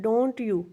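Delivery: don't you stressed with a lift; rising tag tune. Shown as a demonstration. Teacher repeats the tag to show where it rises. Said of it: "don't you पे rising है".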